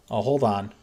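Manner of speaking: ordinary talk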